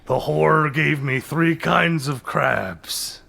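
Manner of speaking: put-on very slow old sailor voice; sea captain voice. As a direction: drag it out like an old sea dog. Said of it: "a different sea captain voice".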